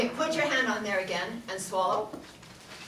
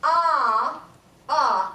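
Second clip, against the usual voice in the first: louder ah, off the larynx; open-mouth ah; 3 semitones higher, 5 dB louder than usual. Shown as a demonstration. Teacher showing the wrong open-mouth ah. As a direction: sing ah with mouth wide. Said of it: "if I open my mouth".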